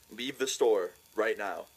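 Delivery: slow, measured mock-stern command; retold stern order. Employee throwing two laughing friends out, mock stern. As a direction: imitate a staffer slowly ordering someone out.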